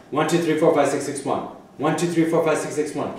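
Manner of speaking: steady count with six said twice; counting demo. Shown as a demonstration. Teacher showing the student how to count it, even count. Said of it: "just count to six twice".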